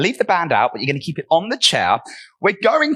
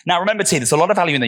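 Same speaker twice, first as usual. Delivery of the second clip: out of breath; much faster than usual. Real, not acted. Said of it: "You can hear I'm out of breath".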